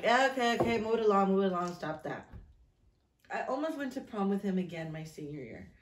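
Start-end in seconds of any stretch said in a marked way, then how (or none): 0.0-2.3 imitating teacher.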